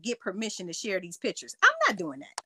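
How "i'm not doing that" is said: louder and higher, flatly refusing; emphatic refusal. Real, not acted. Refusing Black Link's request, loud and emphatic. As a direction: shut the request down hard.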